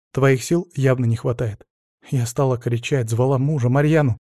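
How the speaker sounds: plain reading voice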